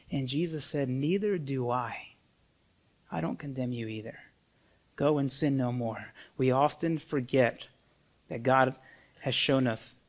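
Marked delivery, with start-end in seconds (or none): 0.9-6.1 soft, tender retold pardon; hushed, merciful acted reply; gentle forgiveness. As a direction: quietly reassure someone you are pardoning. Acting Jesus forgiving the woman.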